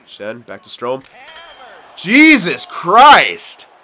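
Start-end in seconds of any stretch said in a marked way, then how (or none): 1.9-3.7 long drawn-out disbelieving groan of a curse; stunned exclamation. Real, not acted. Gamer stunned by a bar-down goal against him, drawn-out groan. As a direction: stretch it out in disbelief, higher.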